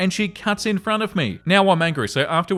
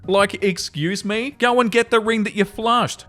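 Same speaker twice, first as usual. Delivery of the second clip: incredulous; 4 semitones higher than usual. Real, not acted. Mocking the audacity.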